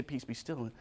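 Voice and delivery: low, very soft soothing command; hushed calming. Retold or imitated. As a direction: hush a baby, barely voiced. Repeats hushed command to niece.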